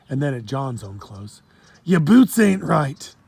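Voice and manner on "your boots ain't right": slow, louder, higher Jamaican scoff; drawn-out Jamaican disapproval; Jamaican accent. Acted. Pirate scoffs at the boy's shoes, Jamaican accent. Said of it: "heavy accent".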